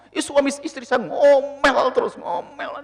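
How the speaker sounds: slow, drawn-out grumble about her husband; whiny wife. Acted. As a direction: complain with a whine. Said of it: "istri ngomong". (istri mengeluh merengek pelan)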